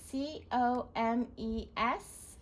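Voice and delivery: slow letter by letter; spelling out. Shown as a demonstration. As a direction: spell each letter slowly. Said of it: "So spell it".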